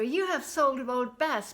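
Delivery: mother realising the cow is gone; dismayed. Acted. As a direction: say it as the bad news lands. Mother notices Bess gone.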